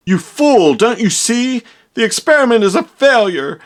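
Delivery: hammed-up mad doctor tirade; mad scientist rant. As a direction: scold the fool in a fit of rage. Mad scientist rants at assistant.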